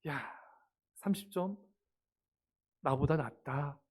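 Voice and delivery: soft, unhurried acted reassurance; gentle parent. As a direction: let the child off softly, with pauses. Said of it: "오히려 부드럽게". (부모가 부드럽게 달래듯)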